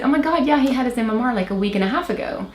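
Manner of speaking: high, startled "oh my God"; a retold jolt of alarm; sudden realization. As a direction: jump up in pitch as it dawns on you.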